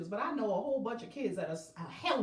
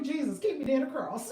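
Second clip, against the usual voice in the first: laughing prayer; 3 semitones higher, 5 dB louder than usual. Retold or imitated. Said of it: "can a witch use that too".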